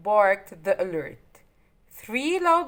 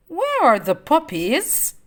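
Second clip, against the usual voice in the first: demanding; 4 semitones higher, 4 dB louder than usual. Acted. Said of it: "Cruella demanded".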